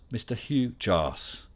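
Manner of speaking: drawn-out slow reading of the name, spelling out the joke; slow, deliberate Australian-free reading of a joke name; slow pun reveal. Pretend. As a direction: let the silly name land word by word. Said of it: "Did you really get me to say that?".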